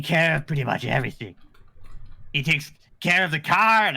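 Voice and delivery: lightly voiced goblin reading. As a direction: read the post as a goblin. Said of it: "Do the goblin voice".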